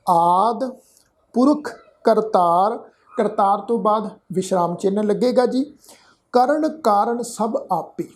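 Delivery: slowed recitation with a noted pause; deliberate, spaced delivery. Shown as a demonstration. Teacher reciting slowly to show where to pause. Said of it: "slow motion ਦੇ ਵਿੱਚ".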